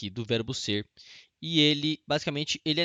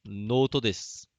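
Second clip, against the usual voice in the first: slow model phrase; much slower than usual. Shown as a demonstration. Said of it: "Se eu pego isso aqui".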